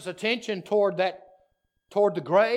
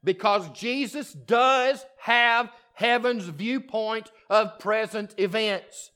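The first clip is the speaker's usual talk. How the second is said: slow, emphatic preacher's declaration; preaching. Acted. Pastor preaching slowly to the congregation, emphatic. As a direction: lay down the truth to the congregation slowly. Preacher stating key truth.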